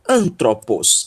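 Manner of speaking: antropos with stress on the first syllable; clearly articulated antropos; pronunciation demo. Shown as a demonstration. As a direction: model antropos clearly for learners. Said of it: "é a pronúncia dessa palavra".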